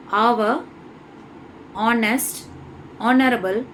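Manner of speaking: "our, honest, honorable" each begun on the o vowel; silent h. Shown as a demonstration. Teacher modelling words that start from o, careful vowel onsets. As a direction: separate "our", "honest", "honorable", all without h. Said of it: "ஓலேருந்து தான் நம்ம pronounce பண்ணணும்".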